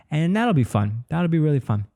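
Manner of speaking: bright rising high voice; excited. Real, not acted. Excited about the comedy club.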